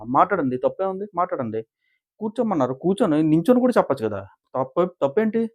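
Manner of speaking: imitating an affronted housemate; acted indignant retort. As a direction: argue back, voice lifted. Acted on-set argument over sitting.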